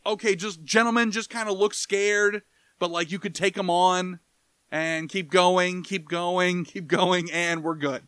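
easygoing director talking the wrestlers through it; a hint of a casual film director giving notes; mock director.

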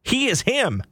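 a hint of a cocky athlete boast; Deion Sanders impression. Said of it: "in my best, Neon Deion Prime Sanders".

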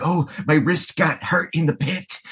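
high, put-on whiny voice; mock whining. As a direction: complain in a high-pitched mock whine. Mimics a whining older concertgoer.

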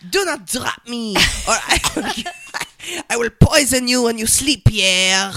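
hammed-up French skater, threatening; mock French diva threatening her partner; French accent. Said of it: "You did French pretty good".

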